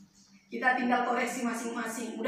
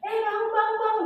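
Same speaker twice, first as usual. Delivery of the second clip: gentle wake-up call; 8 semitones higher than usual. Retold or imitated. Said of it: "nggak pernah dia teriak-teriak".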